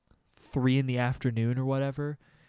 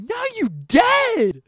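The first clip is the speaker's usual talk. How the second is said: high, slow, louder gloating; triumphant taunt; 8 dB louder, much slower than usual. Retold or imitated. Stomping the hornet, a slow high gloating taunt. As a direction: gloat over the squashed bug. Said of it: "I was like".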